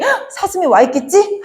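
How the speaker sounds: mock gasp of eager expectation; excited gasp. Teacher acting out a dreamer expecting a deer, with an excited gasp.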